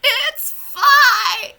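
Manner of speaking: high laughing cry of fine; laughing shout. Acted. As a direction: yell it through laughter. Mock panic over broken session.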